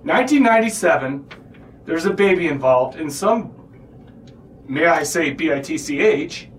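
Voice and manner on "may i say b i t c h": spelled-out bad word, kid-safe; spelling words in front of kids. Shown as a demonstration. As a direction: spell out the swear word letter by letter. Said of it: "What did you just spell?".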